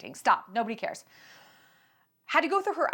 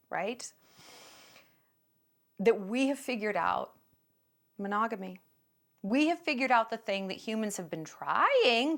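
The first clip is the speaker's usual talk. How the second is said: understated smug condescension; mock smugness. Open-relationship people lecturing normies, mock smugness. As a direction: look down on the poor normies, mildly self-satisfied. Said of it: "they say it with this smugness".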